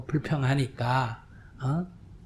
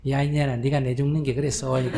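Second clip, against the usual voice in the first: laughing mother-in-law. Retold or imitated. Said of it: "이러더라고".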